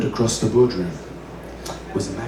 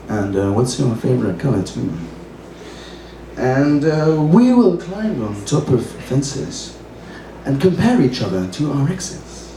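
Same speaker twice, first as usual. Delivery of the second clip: mock-lofty recital of a modern parody verse; open-mic poetry reading; poem reading. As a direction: deliver it like a serious poem with a wink. Reads his own poem aloud.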